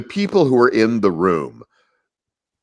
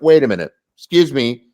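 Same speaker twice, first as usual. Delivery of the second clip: surprised; 7 semitones higher, 4 dB louder than usual. Retold or imitated. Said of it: "And I went".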